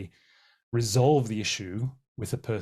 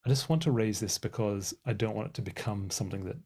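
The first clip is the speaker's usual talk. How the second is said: gentle raising. Shown as a demonstration. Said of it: "a really helpful way is to say".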